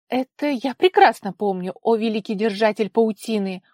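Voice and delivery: insolent reply. A narrator's reading. Daughter answering her father insolently, loud mock respect. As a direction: sneer the title at him. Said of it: "дерзко ответила она".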